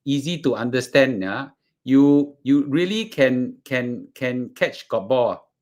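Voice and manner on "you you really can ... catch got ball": Singlish. Shown as a demonstration. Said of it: "the way we talk".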